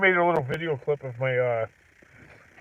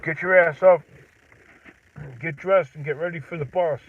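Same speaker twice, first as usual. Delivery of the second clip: put-on yelling at kid; 3 semitones higher, 6 dB louder than usual. Parent yelling kid out of bed.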